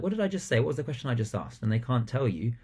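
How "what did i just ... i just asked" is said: shocked stern question. Shown as a demonstration. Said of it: "you're saying, like".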